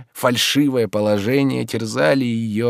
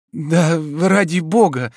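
trusting; 6 semitones higher, slower than usual. A narrator's reading. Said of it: "доверчиво ответила она".

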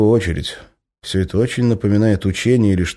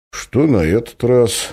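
scoffing; 5 semitones higher, slower than usual. Acted. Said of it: "фыркнул Медведь".

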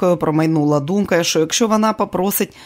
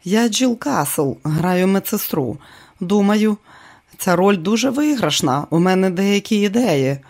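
friendly, warm; 3 semitones higher than usual. Acted. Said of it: "вона посміхнулася, дружньо, тепло".

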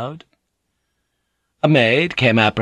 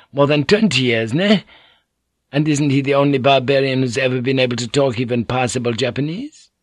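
higher, scornful proud wife; disdainful; 5 semitones higher, 3 dB louder than usual. Acted. Fujiko scorns the plan, higher disdainful voice. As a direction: sneer it out with contempt. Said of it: "lip curled disdainfully".

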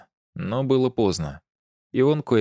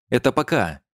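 venomous; 4 semitones higher, 3 dB louder than usual. A narrator's reading. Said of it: "ответила Мира ядовито".

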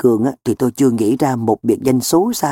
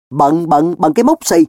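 irritated, dismissive echo; cross, contemptuous comeback; scornful snort; 3 semitones higher than usual. Acted. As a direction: scoff at the excuse, pitch jumping up. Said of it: "Tôi hừ giọng".

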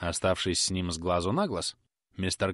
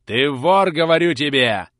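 much louder, higher roar; furious shout; 5 semitones higher, 10 dB louder, slower than usual. Acted. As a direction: hammer the accusation. Carker shouting accusation. (Каркер кричит обвинение, намного громче)

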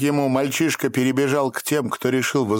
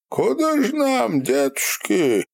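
put-on old man asking; 11 semitones higher than usual. A narrator's reading. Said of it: "расслышал Степан окающего старика".

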